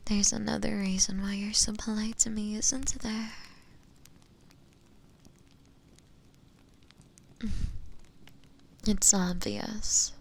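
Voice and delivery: soft seduction. Acted. Witch coaxes captive about love.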